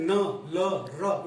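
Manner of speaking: न न ल र said one by one; alveolar sounds. Shown as a demonstration. Teacher demonstrating gum-ridge sounds to students, clearly articulated. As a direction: sound out न, ल, र slowly. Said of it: "आप बोल के देख सकते हैं".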